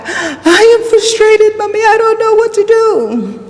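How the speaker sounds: very high imitated child's yell; son shouting back. Son shouts back at his mother, imitated high yell. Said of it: "he shouts back".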